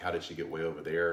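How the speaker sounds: usual speaking voice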